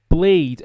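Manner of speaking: PLAYED as one syllable ending in a D. Shown as a demonstration. Teacher modelling PLAYED, one syllable with a D sound. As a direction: close PLAYED straight onto a voiced D. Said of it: "como se eu não tivesse um E".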